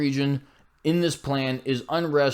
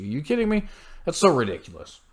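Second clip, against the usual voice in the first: incredulous; 3 semitones higher than usual. Real, not acted. Incredulous at the claim.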